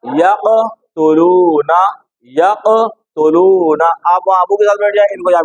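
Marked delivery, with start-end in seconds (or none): 0.0-3.9 यक़तुलूना drawn out very slowly, syllable by syllable; slow careful recitation. Shown as a demonstration. A teacher modelling the word for a child. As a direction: stretch each sound of यक़तुलूना. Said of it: "क्या बोलेंगे?".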